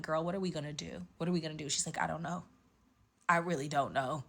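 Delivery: soft, low, helpless murmur; hushed worry. Retold or imitated. Two girls left behind wondering what to do, hushed. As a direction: keep it small and lightly worried.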